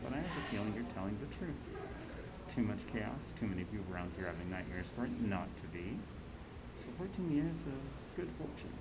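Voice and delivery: a hint of a shrewd auntie, lively pitch swings; lightly played scheming matriarch; lightly voiced crime-boss auntie. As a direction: lightly act a knowing boss weighing up an ally. Voices Auntie Cheng in game dialogue.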